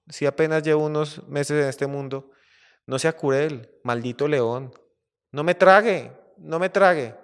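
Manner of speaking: lightly voiced little mouse begging for mercy; pleading mouse. Tiny mouse begs the lion not to eat him, pleading. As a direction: plead mildly, like a tiny creature about to be eaten.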